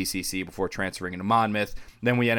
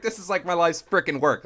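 excited boast; 8 semitones higher than usual. Retold or imitated. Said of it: "I was like".

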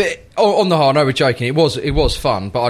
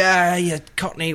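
mock Geordie jeer; 4 semitones higher, 3 dB quieter than usual. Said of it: "they're all pointing at me".

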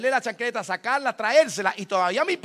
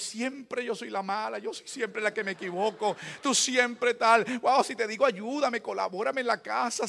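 mock tearful wife; 3 semitones higher than usual. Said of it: "comenzaba a llorar".

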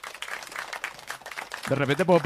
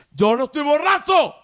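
put-on loud drunken insistence; drunk shouting; 10 semitones higher, 6 dB louder than usual. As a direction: yell it like a drunk denying it. (grito de borracho)

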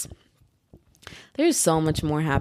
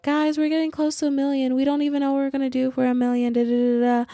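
much higher, excited vlogger voice; imitating the YouTubers; 9 semitones higher than usual. Fan quoting the Ace Family's hype, higher and excited. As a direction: chirp it like a hyped family vlogger. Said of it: "I remember when they're like".

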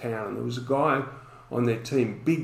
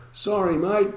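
mock yell, higher and a bit louder, laughing; retold yell; 7 semitones higher, 4 dB louder than usual. Retelling the opponent calling out sorry behind him, mock yell. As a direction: call it back across the field like the big guy. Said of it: "him yelling out".

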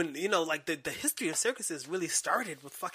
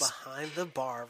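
announcer voice; 3 semitones lower than usual. Shown as a demonstration. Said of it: "I like that".

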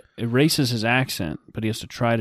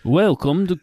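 louder, higher, faked Australian greeting; attempted Australian accent; 6 semitones higher, 5 dB louder than usual. Podcaster trying the intro as an Australian, attempted Australian accent. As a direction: launch a show intro in mock Australian. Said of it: "Let's do a whole minute with Australian accents".

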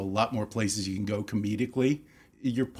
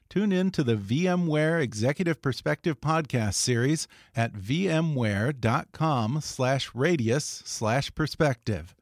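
upbeat promo announcer read; bright ad voice. Acted. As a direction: sell the podcast like a radio spot. Podcast ad read.

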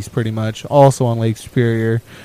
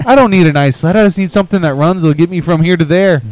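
higher-pitched mock northern accent; thick Canadian accent; 4 semitones higher, faster than usual. Retelling the mechanic's sled argument in a Canadian accent. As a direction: imitate a plain-spoken Canadian mechanic. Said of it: "thick Canadian-ish or northern-ish".

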